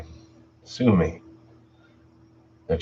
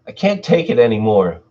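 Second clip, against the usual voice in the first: loud, higher words ground out in anger; through clenched teeth; 5 semitones higher, 6 dB louder than usual. Acted. Tina snapping at the narrator before storming out, through clenched teeth. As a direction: grind it out through your teeth. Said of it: "ground her words through clenched teeth".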